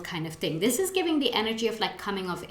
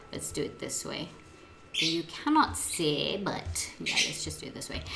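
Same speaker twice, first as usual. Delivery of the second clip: whispering; 3 semitones lower, 6 dB quieter than usual. Real, not acted. Whispered aside to viewers.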